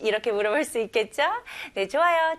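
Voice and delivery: usual speaking voice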